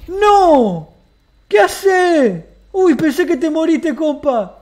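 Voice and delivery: loud, high alarmed shout; startled yell. Real, not acted. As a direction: yell out in sudden fright. Scare, loud outburst.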